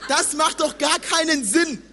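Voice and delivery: can't keep a straight face; laughing. Real, not acted. Preacher laughs to the church about German, laughing.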